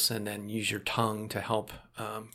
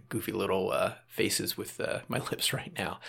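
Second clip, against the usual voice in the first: laughing; 2 semitones lower than usual. Real, not acted. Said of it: "I'm making goofy".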